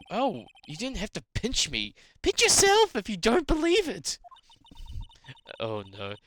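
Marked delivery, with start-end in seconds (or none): 2.2-4.2 character voice. Acted. Voicing character.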